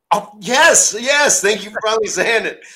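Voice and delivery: gleeful mock triumph. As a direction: crow it like the prank just landed. Owen gleeful at ending his rib.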